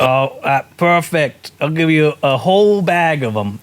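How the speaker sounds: obliging vendor, loosely Scottish; attempted Scottish accent. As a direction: close the sale in mock Scottish. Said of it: "I was trying to do Scottish".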